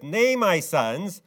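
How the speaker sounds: a touch of an exasperated father raising his voice; rising voice. Retold or imitated. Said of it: "his voice is elevating".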